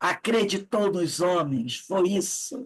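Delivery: sarcastic, full of irony, mocking.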